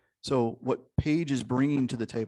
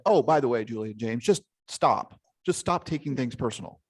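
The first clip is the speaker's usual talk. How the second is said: mock breezy advice. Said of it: "if I just said".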